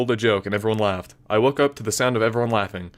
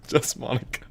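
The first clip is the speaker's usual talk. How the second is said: creepy whisper; 5 dB quieter than usual. Pretend. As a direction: whisper "Just Monika" eerily. Whispered creepy game line.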